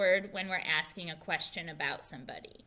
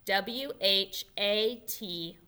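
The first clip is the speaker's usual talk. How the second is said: slow letter by letter W, H, A, T; spelling out; slower than usual. Shown as a demonstration. Teacher spelling the word slowly for children. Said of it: "And it's spelled".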